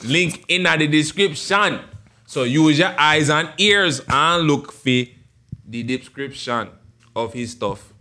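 put-on Jamaican patois; Jamaican man voice. Host plugging his guest to viewers, Jamaican accent. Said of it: "my Jamaican man voice".

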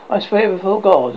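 forced loud vow before God; loud oath. A narrator's reading. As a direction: declare it out loud as ordered.

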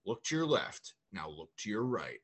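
mock dramatic teacher, measured phrases; movie-style teacher. Teacher addressing a class on the first day, mock dramatic. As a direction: deliver it like a movie speech. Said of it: "trying to do, like, a movie thing".

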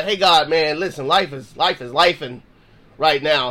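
low, easygoing chat with God; casual conversational prayer. Acted. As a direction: pray as if talking to a friend, pitched low. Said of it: "pray just like you're talking to me".

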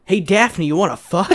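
lightly voiced cartoon hero; a hint of a chipper Fred; Freddy impression. Friend jokes as Fred to Daphne, lightly voiced. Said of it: "I can do Freddy".

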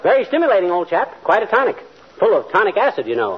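hammed-up English gent; stock company Englishman. Toasting the doctor in a hammy stage English accent. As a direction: play a stage Englishman, pleased with himself. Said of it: "yammering like a stock company Englishman".

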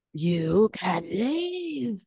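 very slow, drawn-out imperious put-down; mock haughty dismissal. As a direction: stretch it out like a snooty hostess. Imitating Meredith dismissing someone.

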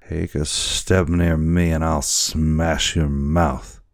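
put-on lightly slurring, threatening drunk boatswain; a hint of drunken menace; drunken sailor. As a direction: drag the words out like a drunken sailor. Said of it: "how drunken it appeared".

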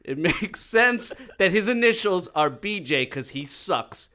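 a light Trump voice, laughing through; Trump impression. Host reads his Trump-voiced tweet, mock Trump bluster. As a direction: roast him like Trump at a podium, breaking up. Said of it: "real Donald Trump speaking at a podium".

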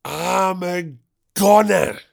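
drawn-out theatrical declaration; hammed-up vanishing voice. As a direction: stretch each word out for mock drama. Hammed-up vanishing act after whisper.

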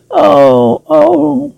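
high, horrified cries; horrified gasp. Acted. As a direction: gasp in horror at the sight. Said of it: "horrified eyes".

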